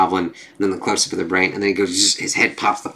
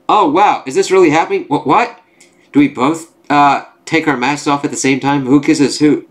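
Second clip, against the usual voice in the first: high, slightly louder wonder; mock amazement; 4 semitones higher, 3 dB louder than usual. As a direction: play giddy disbelief. Giddy character reacts to unmasking offer.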